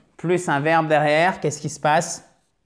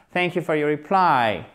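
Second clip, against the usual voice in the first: reply with the stress on PLY; stress on second syllable. Shown as a demonstration. Teacher modelling an email formula, "reply" stressed on its second syllable. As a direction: land on the second syllable of "reply", then fall. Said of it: "Faites bien l'accent tonique sur la seconde syllabe".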